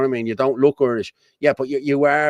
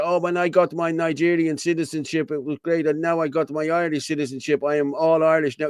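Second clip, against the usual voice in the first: mocked citizenship holder; 4 semitones higher than usual. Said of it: "She's going there".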